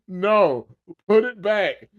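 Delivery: high, mock Jamaican accent; a lighter take on a Jamaican voice. Repeating the Jamaican-voiced demand to return the doll, mock Jamaican accent. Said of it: "I was thinking that in a Jamaican accent".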